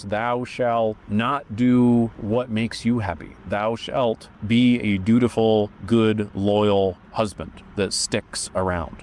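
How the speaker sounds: slow, solemn pronouncing of rules; dragon's commandment. Retold or imitated. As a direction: lay down the law like an ancient dragon. Dragon imposing dogma, quoted.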